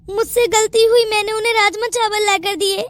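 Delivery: teary, self-pitying complaint; tearful. Acted. Daughter-in-law playing victim to the aunt, tearful. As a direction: sniffle it out like a victim. Bahu crying before the aunt.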